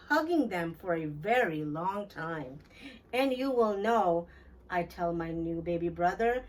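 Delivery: put-on gentle read-aloud for children; lilting, unhurried storyteller; storybook narration. A narrator's reading. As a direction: tell it like a bedtime picture book. Reads picture book aloud.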